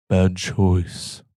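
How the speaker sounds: lightly voiced vampire lord; a hint of undead nobility, pitch unraised; Vampire Lord-esque voice. Possessed devil looking at Vane, light vampire lord voice. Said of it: "in a very familiar Vampire Lord-esque voice".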